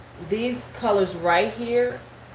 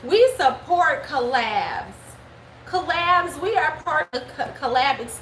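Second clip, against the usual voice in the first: higher, slow, eager mock voice; mocking eager brand voice; 6 semitones higher, slower than usual. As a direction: mimic a brand trying too hard. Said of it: "wanted to be seen like".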